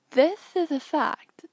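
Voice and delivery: slow, grave and deliberate; Tenel Ka. Acted. Tenel Ka agreeing with Jaina, slow and grave. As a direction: weigh each word like a warrior. Tenel Ka's terse reply.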